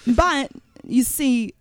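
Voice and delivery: lightly voiced offbeat movie star; odd halting phrasing, a hint of a famous actor; Christopher Walken. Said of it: "She does a sweet, sweet Christopher Walken".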